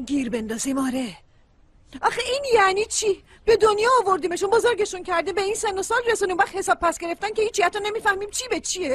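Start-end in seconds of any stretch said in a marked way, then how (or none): 2.0-8.9 raised, pitched-up complaint, partly rushed; exasperated high scolding; upset rant. Real, not acted. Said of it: "چرا اینقدر عصبی هستی؟".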